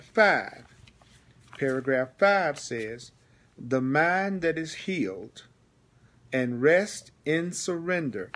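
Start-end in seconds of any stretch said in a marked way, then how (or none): 3.6-8.3 measured reading with pauses between phrases; slow reading. Shown as a demonstration. Teacher reading the paragraph to the class, slowly. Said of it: "Notice I'm reading slowly".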